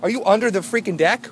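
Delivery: loud, high, exasperated call to the dog. Real, not acted. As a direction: demand where the dog is hiding. Scolding dog under deck.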